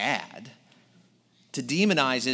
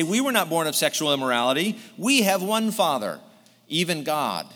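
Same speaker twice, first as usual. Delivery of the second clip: crying out; 3 semitones higher, 4 dB louder than usual. Retold or imitated. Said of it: "they cry out".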